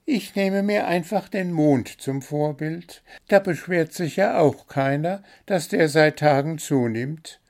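high, chirpy bird voice listing its complaints; little blue bird, demanding. A narrator's reading.

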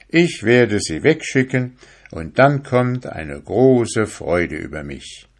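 put-on eager young fisherman talking himself round, voice lifting; lightly voiced excited fisherman; fisherman musing. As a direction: convince yourself the soul is worthless.

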